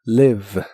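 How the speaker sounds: "live" short i, lip-bitten v; "live" with no final e sound; model word. Shown as a demonstration. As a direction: repeat "live" crisply. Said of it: "casi nunca se pronuncia".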